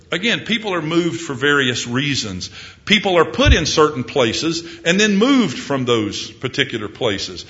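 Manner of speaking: normal talking voice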